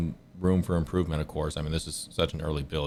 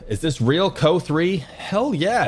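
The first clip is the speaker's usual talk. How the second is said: high, loud burst of excitement; light up at the question, pitched way high; excited; 12 semitones higher, 8 dB louder, slower than usual. Real, not acted. Streamer answering chat, thrilled and loud.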